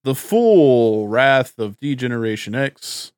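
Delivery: slow, drawn-out showman finish; ringmaster. Pretend. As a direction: land the big intro like a ringmaster. Show announcer intro.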